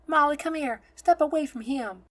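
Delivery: high, loud protective command; urgent order. A narrator's reading. Nun pulls girl away from a stranger, loud urgent order. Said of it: "she says to the girl".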